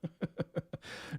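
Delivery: soft unvoiced wheezing laugh; a silent, rueful wheeze of a laugh; breathless laugh. Real, not acted. Laughing at his own naive hope for a perfect dog, a wheezing laugh.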